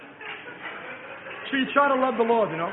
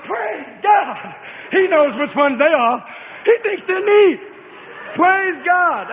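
exultant praise; 5 semitones higher, slower than usual. Acted.

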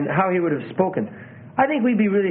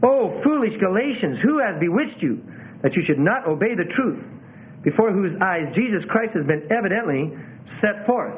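direct, pointed but loving appeal; earnest, feeling-filled scripture reading; deep concern; 3 semitones higher than usual. Shown as a demonstration. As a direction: plead with them without condemning. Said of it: "there is a deep, deep concern".

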